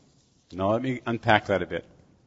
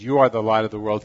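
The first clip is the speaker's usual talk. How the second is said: "You" leaned on, louder delivery; stress on You; 6 dB louder than usual. Retold or imitated. Preacher quoting Jesus to the congregation, stress on "You". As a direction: quote it with an emphatic "You". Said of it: "he's using an emphatic pronoun".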